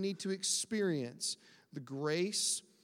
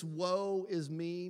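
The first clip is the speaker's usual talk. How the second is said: mock self-pity; much slower than usual. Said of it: "we get in this".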